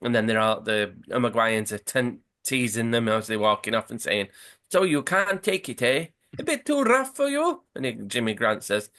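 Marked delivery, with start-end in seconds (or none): 4.7-7.6 mocking taunt. Uruguayans teasing England players.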